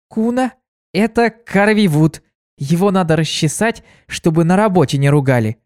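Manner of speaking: put-on chirpy helpful girl offering; young mare voice.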